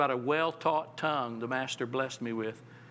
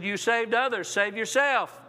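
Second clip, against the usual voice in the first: mocking jeer; 5 semitones higher than usual. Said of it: "The crowd mocked him".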